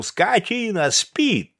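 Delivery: loud, high rousing yell; shouting a sleeper awake, high and hard. A narrator's reading. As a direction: bellow to wake the sleeping poet. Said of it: "крикнул".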